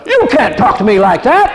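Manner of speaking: high, loud mock indignation; indignant retort. Preacher voicing the natural angry comeback, indignant. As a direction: snap back offended. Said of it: "the human tendency would be".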